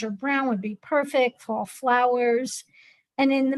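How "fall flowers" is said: ordinary talk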